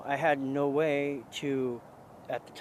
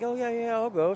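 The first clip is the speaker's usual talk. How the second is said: higher, quick mock-eager yes; breezy agreement; 9 semitones higher, 5 dB louder than usual. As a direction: agree too readily, pitched up and louder. Friend eagerly agrees to help.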